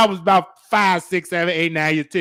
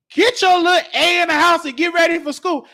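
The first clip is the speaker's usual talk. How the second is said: shouted order to get inside; mama yelling; 5 semitones higher than usual. Retold or imitated. Mama yelling at nosy kid to get ready, shouting. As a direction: bark it like an angry mother.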